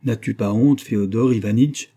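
lightly acted prophetic scolding; almost prophetic. A narrator's reading. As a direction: rebuke him like a prophet. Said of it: "prenait un accent presque prophétique".

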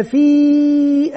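في drawn out as a separate syllable; teacher spelling aloud. Shown as a demonstration. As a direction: sound out في slowly for the class. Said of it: "يبدأ المعلم يتهجى".

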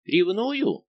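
high, loud, scornful echo of the word; haughty exclamation. A narrator's reading. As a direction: fling the word back haughtily. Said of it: "надменно воскликнула принцесса". (надменно, высоко и громко)

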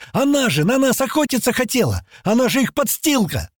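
high-pitched heated accusation; indignant cry. Acted. Young man accusing a girl to the group, crying out. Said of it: "крикнул парень".

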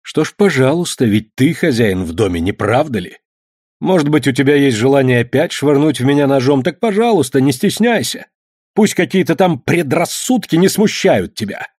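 father's sneering mock politeness; ironic. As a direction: needle him with sarcasm. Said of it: "Отец иронически улыбнулся".

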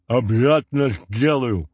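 «Обязательно сделаю» lisped and slurred as if with a whistle in the mouth, gloating. A narrator's reading. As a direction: lisp «Обязательно сделаю» with relish around a whistle. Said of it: "злорадно прошепелявил Степанов". (злорадно шепеляво «Обязательно сделаю»)

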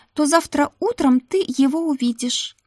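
put-on high eager young maid; Ruta's voice. Ruta vouching to the madam for the new maid, high and eager. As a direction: pitch it up, pleading for the new girl.

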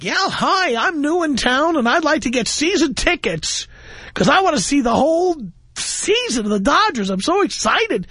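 high, bright-eyed excited caller; eager newcomer. Retold or imitated. New arrival asking the Dodgers for season tickets, eager and high. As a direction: gush like a fresh arrival in LA.

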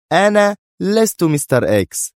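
high, forceful denial; utterly stern. A narrator's reading. Sonia denies to Yaron being Mister X, utterly stern. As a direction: declare it high and adamant. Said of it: "تجيب بكل صرامة الدنيا".

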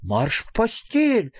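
mildly startled command; frightened. A narrator's reading. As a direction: send the child off, a touch alarmed. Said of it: "испуганно сказал Фредриксон".

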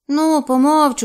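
high, loud creature echo; буркотлива саламандра. A narrator's reading. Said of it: "пробурчала Саламандра". (буркотливий високий голос саламандри)

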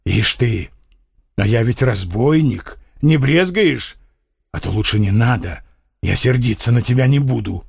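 a lightly voiced rough gypsy, wary; gruff teasing with hidden doubt; teasing convict. Gypsy answers the girl with rough mock teasing. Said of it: "Цыганок оскалился".

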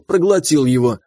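plain reading voice

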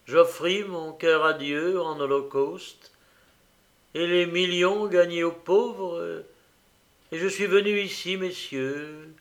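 a lightly voiced old man, grave and pleading; confessing his torment to the guests; despairing old host. Old host confessing to the guests, heavy despair.

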